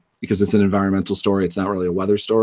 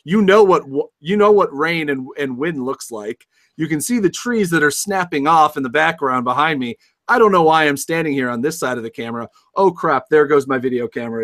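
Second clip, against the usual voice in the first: yelling over hurricane winds; 7 semitones higher than usual. Pretend. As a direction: storm reporter shouting, pitched up. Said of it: "the newscaster in the middle of the storm".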